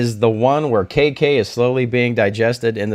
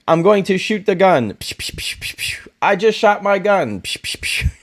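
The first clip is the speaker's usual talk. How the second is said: higher dumb-hero voice with whispered gun noises; mock dumb hero; 7 semitones higher than usual. Mocking the show's dialogue as a dim hero with whispered gunshots. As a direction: play a dim action hero, "psh" shots under the breath. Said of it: "the Mandalorian's just like".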